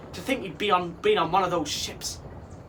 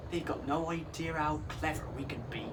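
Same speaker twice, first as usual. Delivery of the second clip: softer, steady calm reply; 2 semitones lower, 7 dB quieter than usual. A narrator's reading. Girlfriend reassuring worried Neptune, calm voice. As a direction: settle him with quiet confidence.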